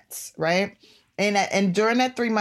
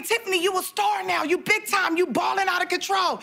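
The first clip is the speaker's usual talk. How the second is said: higher, hyped-up friends cheering her on; 10 semitones higher than usual. Retold or imitated. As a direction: lightly play the friends bragging on her. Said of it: "all my friends are telling me".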